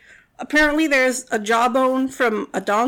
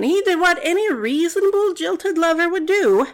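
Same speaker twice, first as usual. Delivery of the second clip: sarcastic; 5 semitones higher than usual. Acted. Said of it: "That's sarcasm".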